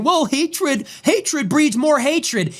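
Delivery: high, slow put-on Somali accent; mock Somali accent. Mocking a congresswoman on TV in a slow Somali accent. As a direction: drag it out in a sneering Somali accent. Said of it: "with her fucking accent".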